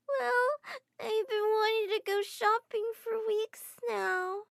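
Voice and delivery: put-on high, slow sniffly child; whiny little girl. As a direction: wheedle for a shopping trip. Niece wheedling after crying.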